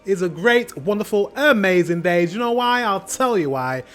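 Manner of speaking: bright, loud hype to open the show; excited intro. Real, not acted. Youtuber greeting viewers with big excitement. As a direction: pump up the audience, pitch riding high.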